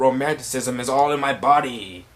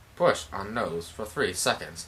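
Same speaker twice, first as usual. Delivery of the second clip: low, soft mechanical robot voice; 5 semitones lower, 9 dB quieter than usual. Recapping a scene where a character repeats his line, in a robotic voice. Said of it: "you hear robotic voices like".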